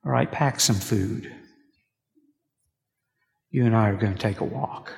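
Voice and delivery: calm God. Retold or imitated. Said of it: "the Lord responds to him".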